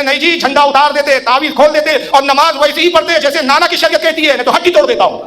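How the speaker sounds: half-acted threatening scolding; retold stern rebuke. Saint scolding the wayward scholar, mildly stern. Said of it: "جلال میں فرماتے ہیں".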